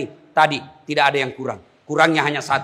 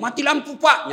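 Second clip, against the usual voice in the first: calling out to the guard; 12 semitones higher than usual. Retold or imitated. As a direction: yell for help down the corridor. Prisoner calls out to the guard.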